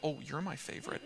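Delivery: soft, tender aside; gently imitated fatherly reassurance; confiding father. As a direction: tell a child privately, voice dropped. Father reassuring the other daughter.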